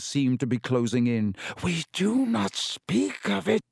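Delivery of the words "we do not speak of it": high, slow, fierce spider voice. A narrator's reading. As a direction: warn them off fiercely. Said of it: "said Aragog fiercely".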